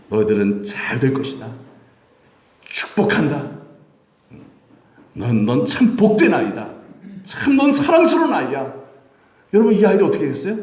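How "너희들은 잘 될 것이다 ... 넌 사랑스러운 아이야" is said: tender blessing. Acted. Jesus blessing children, acted.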